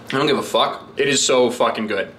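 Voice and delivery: ordinary talk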